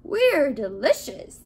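loud, drawn-out proud shout; shouting back. A narrator's reading. Donuts proudly answer the baker, shouting. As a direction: call it out slowly and loudly. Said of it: "the donut shouted back".

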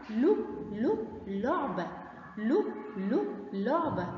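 لو repeated slowly and softly before لعبة; soft slow drill. Shown as a demonstration. Teacher sounding out لو لعبة softly for children. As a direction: sound out لو gently, then لعبة. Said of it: "زي كلمة".

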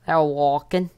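high, loud excited repeat; thrilled squeal. Real, not acted. Seeker walks past hiding spot.

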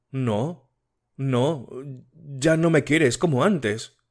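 a hint of an anxious girl pleading; Matilde voiced. Matilde's plea about love.

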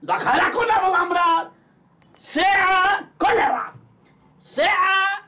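loud, slow complaining; exasperated rant. Acted. Doctor's patient complaining theatrically.

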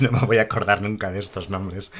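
amused, real laugh into the words. Real, not acted. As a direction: laugh at how hopeless your memory is. Se ríe del nombre difícil. (entre risas, dándose por vencido)

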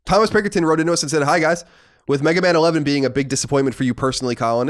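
read-aloud voice, pitched a little up; reading a listener letter. Acted. Host reads a listener's letter to co-host, read-aloud voice. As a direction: read the letter out in an even presenter's cadence.

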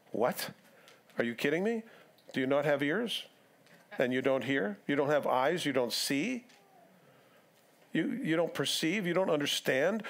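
disbelieving questions, each lifting at the end; mock incredulity. Teacher questioning disciples who missed the point, mildly incredulous. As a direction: act out a baffled teacher, mildly exasperated.

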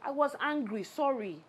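low, soft, placating voice; subdued apology. Acted. Wife apologising to her angry husband, softly.

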